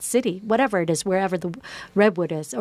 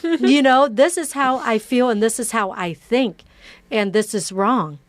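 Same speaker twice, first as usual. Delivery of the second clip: nervous apology; 4 semitones higher, 4 dB louder than usual. Retold or imitated. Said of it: "I'm like".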